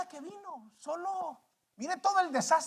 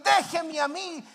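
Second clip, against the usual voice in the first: insistent refusal; 5 semitones higher, 4 dB louder than usual. Acted. Refusal repeated, acted.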